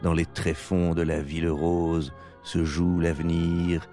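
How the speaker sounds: slow, low poetic reading; poetic narration. Acted. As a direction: read it like a radio poem. Poetic closing over music.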